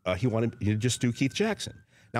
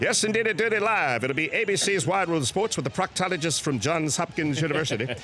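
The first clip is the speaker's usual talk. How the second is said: Keith Jackson impression; 3 semitones higher than usual. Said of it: "Let me do it for you right now".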